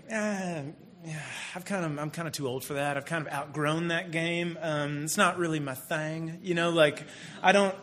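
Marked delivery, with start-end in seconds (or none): 0.1-6.4 reluctant excuse. Pretend. Acts out reluctant excuse to daughter.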